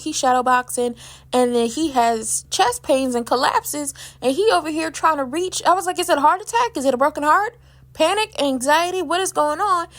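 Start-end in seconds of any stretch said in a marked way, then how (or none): 6.0-9.9 alarmed rush of questions. Real, not acted. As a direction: blurt out panicked questions about the collapse. Vlogger reacting to collapse scene.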